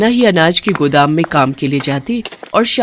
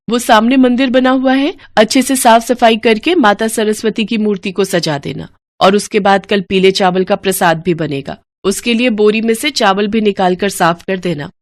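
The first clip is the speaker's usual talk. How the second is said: higher, a lightly voiced lady of the house; mistress's voice; 4 semitones higher than usual. Mistress tells Gomti how to clean the temple, brisk. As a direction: instruct the servant kindly but firmly.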